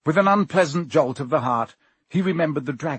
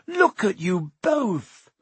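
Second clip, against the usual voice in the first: aghast Hermione; 7 semitones higher, slower than usual. A narrator's reading.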